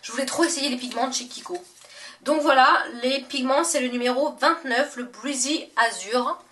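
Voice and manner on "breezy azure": English words in a thick French accent; clumsy French-accented English; bad English accent. Real, not acted. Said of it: "mon accent anglais pourri".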